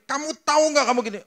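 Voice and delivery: high, loud, fast scolding; angry scolding. Retold or imitated. A father scolding his son, fast and loud. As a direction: rattle it off like a furious father. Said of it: "di marah-marah".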